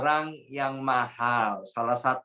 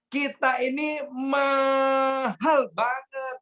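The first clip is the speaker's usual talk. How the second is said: preaching shout; 9 semitones higher, much slower than usual. Real, not acted. Preacher stresses people are precious.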